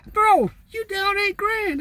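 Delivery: high-pitched, drawn-out "bro"; slow, incredulous self-scolding; mock disbelief. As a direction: talk yourself down in a high, stretched voice. Scolding himself out of splurging.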